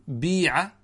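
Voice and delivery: بيع said as biiʿa with a pure i; kasra reading. Shown as a demonstration. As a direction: voice بيع with a front i vowel. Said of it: "ولك فيه الكسر".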